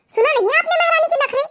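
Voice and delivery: indignant complaint. Acted. ननद भाई से शिकायत करती.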